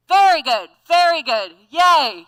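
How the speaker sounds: bright, loud cheering. Shown as a demonstration. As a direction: cheer the group on. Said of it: "change the exercise by going".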